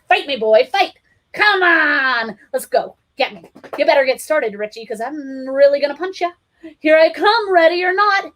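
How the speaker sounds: high, loud teasing dare; excited roughhouse taunt; playful challenge. A narrator's reading. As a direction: goad the kids into play. Roughhousing with children.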